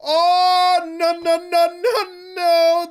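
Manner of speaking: loud, high "oh!" yelps broken by laughter; high, loud laugh-yelps, then "no, no, no"; shocked laughing shouts. Real, not acted. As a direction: shriek and laugh in disbelief. Shocked reaction to the footage.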